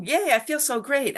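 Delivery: high-pitched little cheer; lightly hammed-up happy squeal; mock delight. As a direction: play a body thrilled with itself. Voices the delighted body.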